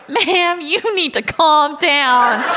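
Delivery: slow, drawn-out cop's order; mock-officer firmness, stretched out; police officer imitation. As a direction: imitate an officer settling someone down. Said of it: "he was like".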